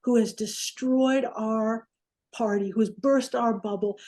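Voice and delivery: slow, lightly pompous indignation; mock outrage. Bodyguards reacting to a party crasher, slow mock outrage. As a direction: draw it out as if mildly scandalized.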